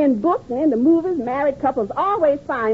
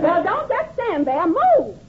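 bossy; 5 semitones higher, slower than usual. Acted. Wife ordering husband around.

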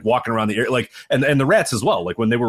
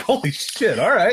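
put-on Chicago accent; 10 semitones higher, slower than usual. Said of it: "I like how you said that in a stereotypical Chicago accent".

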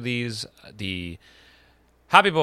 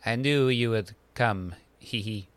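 put-on French accent; slower than usual. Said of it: "I'll do Louis".

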